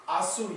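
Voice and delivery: "asu" pushed out with firm stress; stressed syllable. Shown as a demonstration. Teacher marking the stressed syllable for students, stressed "asu". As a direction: put clear weight on "asu", drawing out its end. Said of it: "you put stress on asu".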